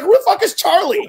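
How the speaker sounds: high laughing question; incredulous, cracking up; laughing disbelief. Retold or imitated. Incredulous at the ghost's name.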